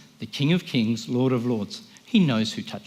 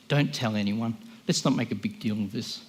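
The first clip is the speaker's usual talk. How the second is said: humble; 3 semitones lower, 5 dB quieter than usual. Acted. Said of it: "He was humble about it".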